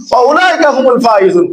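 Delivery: strained, hoarse preaching voice; hoarse from yelling. Real, not acted. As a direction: voice worn out from shouting. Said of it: "গলা ভেঙে গেছে আমার".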